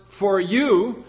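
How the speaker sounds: "for you" set apart and said deliberately; stress on "for you". Shown as a demonstration. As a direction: lean on "you" in "for you". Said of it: "the emphasis is on the words".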